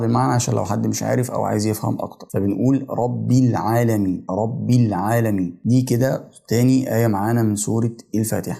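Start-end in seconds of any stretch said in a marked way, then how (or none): 2.9-5.6 slow "رب العالمين" as rabbil-alamin; joined words. Shown as a demonstration. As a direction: link "رب" into "العالمين" slowly, no break. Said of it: "لا بوصلهم مع بعض".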